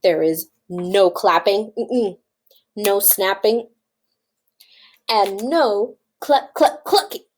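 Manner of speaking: measured, emphatic list of bans; firm rule-giving. Acted. Farmer forbidding chickens their noises, firm. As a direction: lay down each rule firmly.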